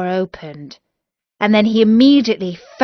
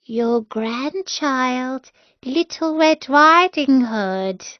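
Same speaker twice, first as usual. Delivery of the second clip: put-on wolf faking a girl's voice; 5 semitones higher, slower than usual. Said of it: "faking her voice".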